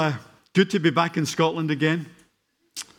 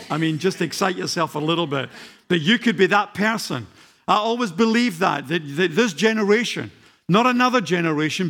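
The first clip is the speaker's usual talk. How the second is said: preaching at full force; 2 semitones higher than usual. Acted. Preacher urging the church they are the generation, preaching at full force. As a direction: fire up the whole congregation.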